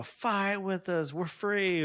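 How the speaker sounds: half-hearted imitation of freed prisoners calling out; mild mock scream. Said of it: "or whatever they're screaming".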